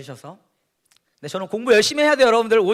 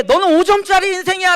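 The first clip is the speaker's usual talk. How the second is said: harsh self-label; 9 semitones higher, 8 dB louder than usual. Acted. Preacher voicing a harsh label.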